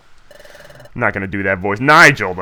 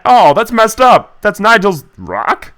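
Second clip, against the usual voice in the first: slow shocked outrage; 5 semitones higher, slower than usual. Real, not acted. Bullies steal Nigel's rock.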